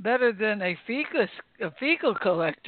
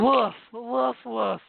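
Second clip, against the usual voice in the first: puppy barks; 2 semitones higher, slower than usual. Pretend. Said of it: "speak to puppy".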